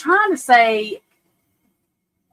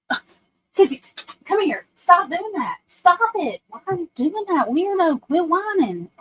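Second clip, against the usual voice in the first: higher, exasperated telling-off; scolding the dog; 4 semitones higher than usual. Real, not acted. Sissy won't quit whining, exasperated higher scolding. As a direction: nag the dog to stop whining.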